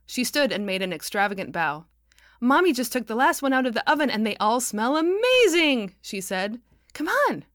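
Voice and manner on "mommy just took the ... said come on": put-on high, loud, fast child voice; a little girl bursting with news; excited little girl. A narrator's reading. Excited child Kitty speaking.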